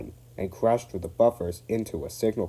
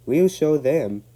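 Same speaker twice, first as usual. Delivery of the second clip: grim; 7 semitones higher, 8 dB louder, slower than usual. A narrator's reading. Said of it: "said Douglas grimly".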